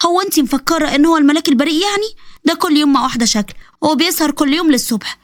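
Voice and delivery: mocking alter ego.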